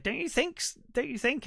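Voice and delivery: high-pitched retold question; fishing for agreement. Woman asking him about the tie, high-pitched imitation. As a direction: imitate her, voice lifted high. Acting out her coy reply.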